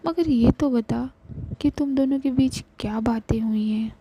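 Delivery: worried friend. Acted. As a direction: push her to talk, caring but firm. Shivi scolds and comforts Ravi. (प्यार भरी डांट, थोड़ी ऊँची आवाज़)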